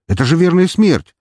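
high, loud incredulous protest; disbelieving. Acted. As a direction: exclaim as if it cannot be true. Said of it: "не поверил Трой".

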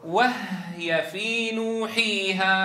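نوحيها with a clear silent h, slowly; slow chanted نوحيها; still h sound. Shown as a demonstration. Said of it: "ركزوا على الهاء، الهاء ساكنة هنا".

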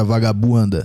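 carioca accent, low and drawn; Rio accent. Shown as a demonstration. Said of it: "fala aqui agora a palavra vagabunda com o sotaque carioca".

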